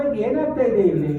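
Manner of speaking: rattled off fast through laughter; laughing mockery. Real, not acted. Mocking anglophile Indians before the audience, laughing fast. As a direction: laugh at them while rushing the words out.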